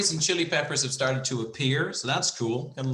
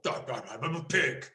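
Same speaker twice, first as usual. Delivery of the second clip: fat cat pig; much slower than usual. Pretend. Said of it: "industrialist fat cats".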